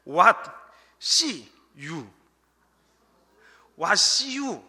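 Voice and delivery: WHAT, SEE, YOU spaced out with pauses; slow, word by word. Shown as a demonstration. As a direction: pull "What see you" apart, each word distinct. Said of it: "이 말을 빨리 하면". ("What see you"를 한 단어씩 끊어서 천천히)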